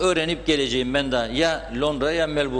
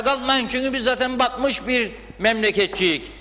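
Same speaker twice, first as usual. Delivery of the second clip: impassioned appeal; 5 semitones higher than usual. Real, not acted. Appeal to airlines, rising.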